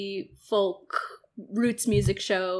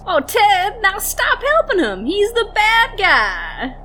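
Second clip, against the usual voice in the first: higher, louder, exasperated scolding; 9 semitones higher, 7 dB louder than usual. Acted. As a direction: scold him like a fed-up friend. Scolding the helper, sketch.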